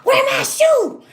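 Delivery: high, loud frantic searching; frantic boyfriend. Retold or imitated. Boyfriend hunting for his sock and shoe, high and frantic. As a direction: play him scrambling for clothes in panic. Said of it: "I can hear him saying".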